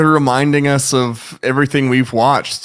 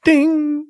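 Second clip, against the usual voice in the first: high mock phone ding; notification ding. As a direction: chime like a message alert. Imitating phone notification sounds.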